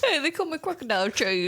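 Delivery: put-on a touch of old-time mobster, half laughing; 1930s gangster. Cheese villain introducing himself, mock gangster. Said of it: "I talk like a nineteen thirties".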